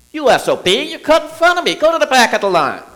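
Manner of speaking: loud, high angry outburst at someone cutting in line; openly aggressive yelling. Shown as a demonstration. Pastor demonstrating to the congregation, a loud high angry yell. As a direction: yell it like you've been cut off in line. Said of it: "demonstrate what that looks like".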